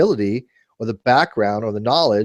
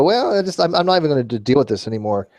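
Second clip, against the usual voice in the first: exasperated; 4 semitones higher than usual. Retold or imitated. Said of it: "you just gotta go".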